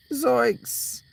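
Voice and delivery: a high, loud squeal of a name; excited greeting. Real, not acted. Greeting a viewer in the chat with a high, loud, excited call. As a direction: call the name out with a sudden burst of joy.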